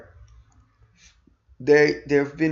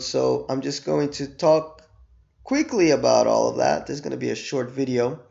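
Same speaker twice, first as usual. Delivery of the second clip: strained, worn-out voice from illness; losing voice. Real, not acted. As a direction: talk through a fading voice. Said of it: "because I'm losing my voice".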